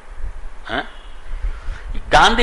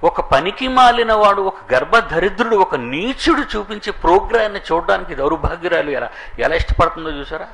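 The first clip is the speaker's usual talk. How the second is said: scornful denunciation; 4 semitones higher than usual. Real, not acted. Preacher denouncing TV host.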